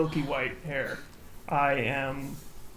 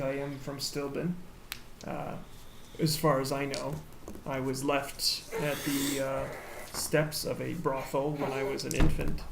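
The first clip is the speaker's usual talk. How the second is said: soft, subdued voice for the whole story; very quiet; 6 dB quieter than usual. Acted. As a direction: tell it quietly, held back. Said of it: "just very just quiet".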